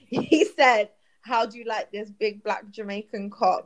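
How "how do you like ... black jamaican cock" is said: lightly put-on Jamaican accent; a retold line with a Jamaican lilt; imitated Jamaican accent. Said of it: "in the illest Jamaican accent".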